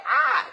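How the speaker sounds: mock startled cry, quickly dropped; startled yelp. Kid hit with grandpa's leg nub, startled yelp.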